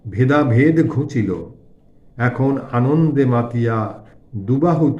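slow, drawn-out chanting recital of verse; devotional verse recitation. A narrator's reading. Narrator reciting a song to the Divine Mother, slow devotional recitation. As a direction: recite the hymn slowly, lingering on line endings.

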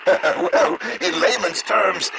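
laughing through the words; amused chuckle as he explains; chuckling lightly. Acted.

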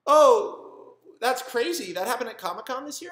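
high, loud put-on astonishment; fake shock. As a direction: play dumb with big mock surprise. Feigning shock at her story.

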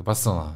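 Barcelona slurred with the middle syllable swallowed; zlepek, przejęzyczenie. Shown as a demonstration. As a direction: run the syllables of Barcelona together indistinctly. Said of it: "zrobi mi się jakiś zlepek". (Barcelona niewyraźnie, zlepione sylaby)

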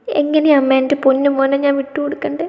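a mother pleading through sobs not to lose her son; crying mother's anguished question; sobbing plea. A narrator's reading. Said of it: "തനുവിൽ നിന്നും ഏങ്ങലടികൾ ഉയർന്നു".

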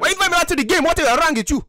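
put-on high, agitated African accent; indignant outburst in a put-on African accent. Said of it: "so you don't have an African accent".

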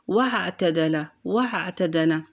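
واعتدل with no glottal stop after wa; hamza dropped. Shown as a demonstration. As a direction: glide from wa straight into ʕ in واعتدل. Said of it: "أنا لم أنطق الهمزة".

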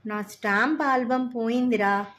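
put-on a boy's understated feeble lament. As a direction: barely get the words out, defeated. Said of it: "అని హీన స్వరంలో అన్నాడు".

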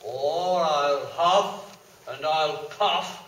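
slow, loud menacing threat building up; big bad wolf threatens; threatening wolf. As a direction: growl the threat, rising to a roar.

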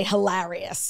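"hilarious" as hi-LARR-ee-us; short a as in "cat" in "hilarious"; Long Island pronunciation. Shown as a demonstration. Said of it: "how people pronounce it in Long Island".

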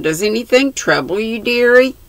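mildly tender, quick and high. A narrator's reading. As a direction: ask tenderly, lifting the pitch on the endearment. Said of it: "she said in the tenderest tone".

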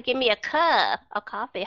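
"cup" drawn out into "cub"; long vowel in cup. Shown as a demonstration. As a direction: stretch "cup" long mid-sentence. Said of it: "nghe cái sự kéo dài".

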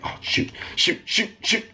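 breathy whispered shoot shoot; whispered panic. Real, not acted. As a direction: hiss it under your breath. Panicking while parkour fails.

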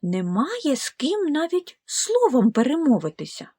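lonely gosling. Acted. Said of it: "подумав Віллі".

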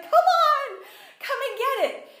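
high, loud, excited invitation; eager calling out. Acted. God inviting you to your inheritance, eager calling out. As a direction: call out loudly, bursting to share a present.

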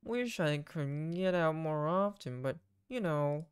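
lightly voiced weary family man; a hint of a burdened dad; wistful captain dad. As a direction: start slowly, then list off the duties. Voices Joseph in the game.

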